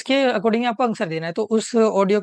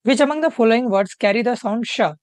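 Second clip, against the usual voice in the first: slow question read-out; much slower than usual. Shown as a demonstration. Teacher slowly reading the exam question to the class. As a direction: read each word slowly and clearly. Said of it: "reading the question slowly aloud".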